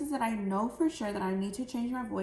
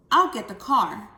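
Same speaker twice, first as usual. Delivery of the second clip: louder, brisk announcement; brisk dad; 9 dB louder than usual. Shown as a demonstration. Dad announces he'll get the car, brisk. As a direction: call out you're getting the car. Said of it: "where I change my voice".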